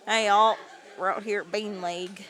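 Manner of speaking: southern accent. Shown as a demonstration. Streamer greeting viewers in a playful southern accent. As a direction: greet them like a Southern host. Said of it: "you got it with a southern accent".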